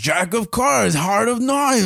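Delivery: very high, slow, eerie, possessed-sounding voice. Retelling a horror movie scene with card games, imitating a possessed movie voice. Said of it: "like, in that voice".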